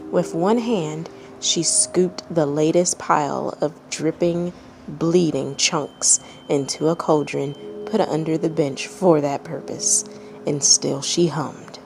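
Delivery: calm, even storytelling read; measured narrator voice reading a tale; story narration. A narrator's reading. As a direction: read it like a bedtime story to listeners. Reads a fanfic story aloud.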